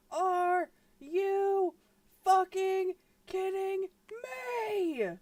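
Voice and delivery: high, drawn-out exasperated whine; frustrated wail. Real, not acted. A streamer wails in frustration, hunting for a lost image. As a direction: whine it out, fed up.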